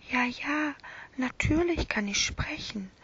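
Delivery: put-on a tiny, gentle stuffed lamb speaking to the boy; small lamb voice. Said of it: "kleine, leise Stimme".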